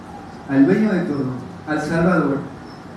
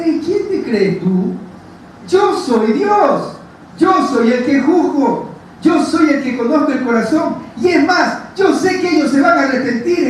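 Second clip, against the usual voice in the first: stern rebuke; 4 semitones higher than usual. Retold or imitated. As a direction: scold them from above, drawing out each yo. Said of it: "les habló fuerte".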